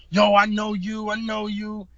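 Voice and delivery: imitating a tripping guy; mock crazed call-out. Guy yelling at audience.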